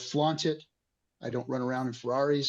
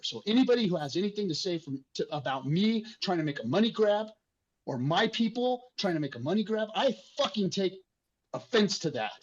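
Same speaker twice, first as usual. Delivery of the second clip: emotional offense; 5 semitones higher than usual. Real, not acted. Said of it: "sorry for getting emotional about it".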